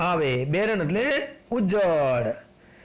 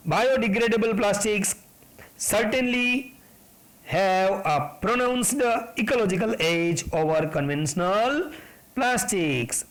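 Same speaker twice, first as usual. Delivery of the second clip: slow text reading; much slower than usual. Acted. Reads the textbook sentence aloud.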